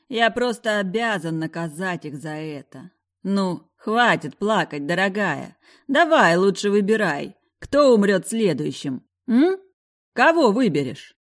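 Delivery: taunting. Acted. Villain taunting captive.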